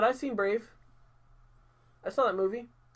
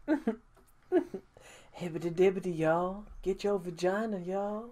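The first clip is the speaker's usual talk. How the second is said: mocking a rapper; 3 semitones higher than usual.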